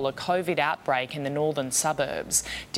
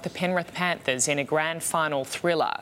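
tabloid tv host. Acted. Anchor opens bulletin.

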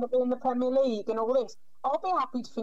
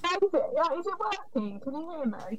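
muffled bad line, like underwater; 3 semitones higher, faster than usual. Real, not acted. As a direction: voice garbled through a poor connection. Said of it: "You sound a bit like you're underwater".

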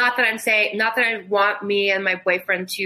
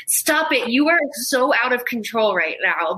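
higher-pitched telling-off; mock scolding; 4 semitones higher than usual. Sister scolding her sibling for taking pictures, mock exasperated. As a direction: imitate a sister reining someone in.

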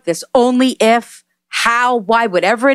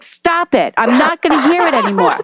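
higher, faster mock telling-off; retold scolding; 6 semitones higher than usual. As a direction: cut him off, relaying her exasperation. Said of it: "she started yelling at me".

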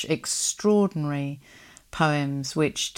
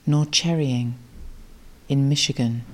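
poem reading. Acted. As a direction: let each line land, unhurried, like a gift. Reads the gift poem aloud.

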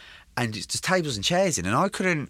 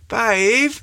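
calling out; 11 semitones higher, 5 dB louder than usual. Retold or imitated. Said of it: "and I'm like".

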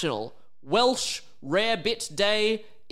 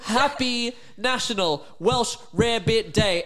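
slow, higher announcer delivery; ceremonial announcement; 7 semitones higher, slower than usual. Pretend. Host declaring the day chosen, grand announcement. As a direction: proclaim it word by word.

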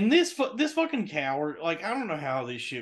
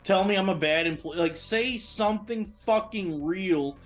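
raised, higher-pitched venting; exasperated rant; 4 semitones higher than usual. Retold or imitated. Ranting in his head at the manager who won't fire him straight: exasperated and raised.

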